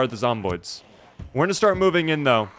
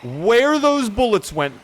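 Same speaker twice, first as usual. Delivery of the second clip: mock scolding; 9 semitones higher, much slower than usual. Scolding teammate in high voice.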